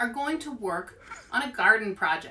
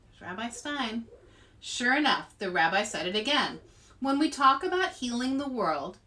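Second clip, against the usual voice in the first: put-on lively read-aloud voice for kids; story narration. A narrator's reading. Librarian reading chapter four to children, storytelling voice.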